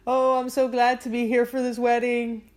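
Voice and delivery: lightly acted tipsy confession; a touch of drunken, tearful apology; mock drunk son. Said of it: "gets drunk and he's like".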